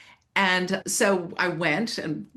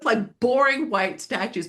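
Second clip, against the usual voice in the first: laughing; 6 semitones higher than usual. Real, not acted. Laughing about Greek statues.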